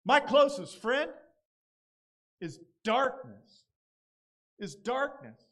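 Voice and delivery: loud, high anguished cry that then slows; psalmist crying out. Retold or imitated. Pastor voices the psalmist crying out to God, anguished. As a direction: cry the words out to God in despair. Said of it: "he says".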